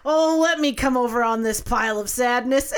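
laughing imitation of a son joining the cuddle; laughing kid quote. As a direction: giggle it out like the little boy. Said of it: "Cohen goes".

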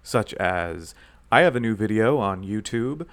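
mock-official radio announcer, lightly put on; deliberate, measured announcement with pauses. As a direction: play the radio host making an official statement. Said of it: "talk in my radio voice".

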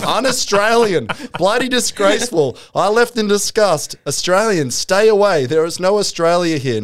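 high, indignant ranting reviewer; outraged reviewer. Retold or imitated. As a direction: read the review like a furious Aussie tourist. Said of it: "this guy's blowing gaskets".

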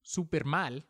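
ordinary talk, nothing marked

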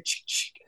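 soft, voiceless "chick, chick"; imitated shotgun pump. Telling how the trooper readied the shotgun, imitated pump sound. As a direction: mimic a pump action racking, under the voice. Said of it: "engage the pump action shotgun".

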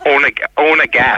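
Ohne, ohne gas, drawn out slowly in German; German phrase. Shown as a demonstration. Asked by co-host how to say no gas, slow German. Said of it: "how do you say "no gas".

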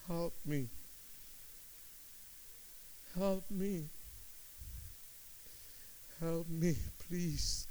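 soft, broken plea for help; quiet beggar's plea; quiet begging. Retold or imitated. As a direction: beg softly, almost to yourself. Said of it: "I began a beggar".

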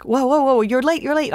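high, loud flustered protest; mock freak-out. Lawyer to her late client in court, freaking out. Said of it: "So Sarah's freaking out".

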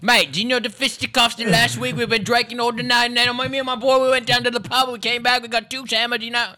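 put-on high, loud, rambling British bloke accent; broad British dialect. Comic sending up a mate's pub story, broad British accent. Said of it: "like, dialect, because if someone is like".

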